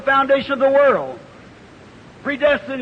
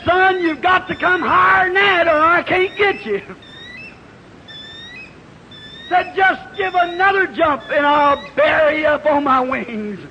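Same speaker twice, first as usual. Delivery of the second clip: mother eagle's call; 3 semitones higher than usual. Acted. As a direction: urge him upward from the sky. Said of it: "His mother said".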